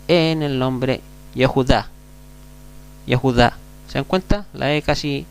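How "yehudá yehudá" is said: "Yehudá" with the E barely sounded; teacher demo word. Shown as a demonstration. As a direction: say "Yehudá" with the E almost swallowed. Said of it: "casi ni se pronuncia".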